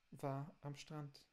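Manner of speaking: slow, careful "war am Strand"; correct German. Shown as a demonstration. Teacher models the corrected German sentence, slow and careful. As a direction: give "war am Strand" slowly, clean and correct. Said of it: "Usar só os tempos que existem".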